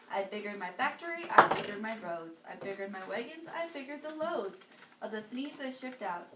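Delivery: put-on lively read-aloud for children; storybook reading. A narrator's reading. Reading to kids, lively storybook voice. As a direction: read it like bedtime story time.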